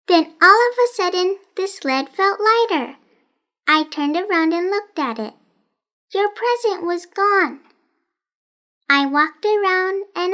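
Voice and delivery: lightly voiced strange girl, sing-song; odd girl Rosamond.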